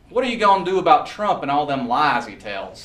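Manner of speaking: a Southern good ol' local's question; thick Southern accent. Retold or imitated. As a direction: quote him in a country Southern accent. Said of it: "Thick Southern accent like I grew up around".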